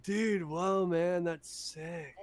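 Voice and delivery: slow, dazed stoner drawl; lazy surfer-stoner delivery. Retold or imitated. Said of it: "I'm always like".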